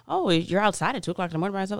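imitated disbelief. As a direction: rush it out like an incredulous friend. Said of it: "you're like".

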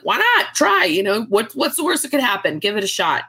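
playing mom cheering her on; a light imitation of an upbeat mother; imitating mom. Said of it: "And she's like".

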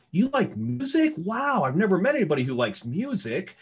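high, hammed-up gushing; mock eager small talk. Parodying an agent faking common ground. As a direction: overeager fake enthusiasm. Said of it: "I'm gonna be a little bit absurd".

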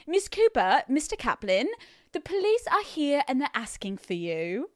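polite imitation British waiter; nice British accent. Waiter tells guests of police, lovely British accent. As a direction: break it gently in a put-on British accent. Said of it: "It sounds so much nicer when they say it".

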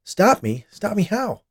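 high, agitated disbelief; startled, panicky questions; alarmed questioning. A narrator's reading. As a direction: ask it in mounting alarm. Alarmed man questions nurse's threat.

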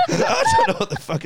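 high, breaking into laughter mid-line; laughing. Real, not acted. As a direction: laugh through the words. Laughing retelling confusion.

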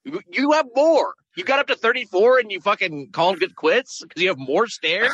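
incredulous. Real, not acted. Host incredulous at quitting caller.

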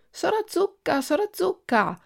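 very high, tiny calling voice; little voice calling. A narrator's reading. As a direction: call the name in a thin little voice. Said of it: "fece ancora la vocina".

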